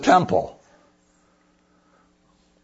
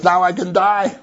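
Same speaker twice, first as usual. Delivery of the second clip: excited Simeon; 6 semitones higher than usual. Retold or imitated. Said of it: "He's so excited".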